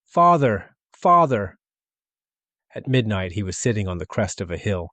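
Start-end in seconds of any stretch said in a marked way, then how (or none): 0.1-1.6 much higher, louder anguished call; sobbing cry. A narrator's reading. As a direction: cry out for father in despair. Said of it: "panting, sobbing".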